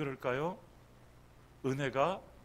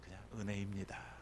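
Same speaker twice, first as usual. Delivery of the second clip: gentle confession of gratitude to God; humble thankful prayer. Retold or imitated. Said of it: "여러분, 이것이 아니라".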